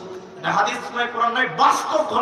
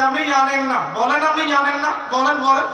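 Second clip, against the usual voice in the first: insistent teasing; 4 semitones higher, 4 dB louder than usual. Retold or imitated. Boy pressing the preacher.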